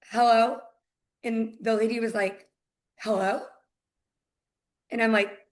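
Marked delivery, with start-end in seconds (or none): 0.1-0.6 imitated phone pickup, louder; retold phone greeting. Agent answering an unknown number, firm retold greeting. 3.0-3.4 mildly puzzled hello, rising at the end; caller taken off guard. Retold or imitated. Buyer's agent surprised someone picked up, tentative retold greeting.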